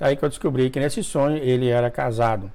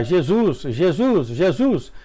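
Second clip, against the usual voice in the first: mild mock cry of Jesus, a little higher; retold shout; 4 semitones higher, much slower than usual. Dreamer on the street calling out to Jesus, mild retold yell. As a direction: call out to Jesus, half-acted. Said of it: "comecei a gritar".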